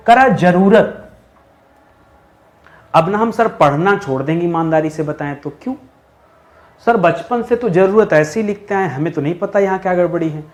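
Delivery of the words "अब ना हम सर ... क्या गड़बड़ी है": mock student complaint. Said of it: "अच्छा अच्छा, ये इसलिए आपको नहीं पता ना".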